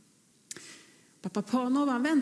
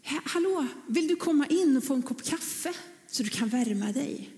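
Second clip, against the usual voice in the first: higher friendly call across the street; a raised, welcoming hallo; 4 semitones higher than usual. Acted. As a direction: call the sweeper in warmly from the door. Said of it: "Så han ropar på honom".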